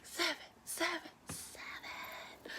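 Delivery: high, fading to a whisper, moaning; breathy orgasm moan. Retold or imitated. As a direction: sigh it out like climaxing. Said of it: "So it's like".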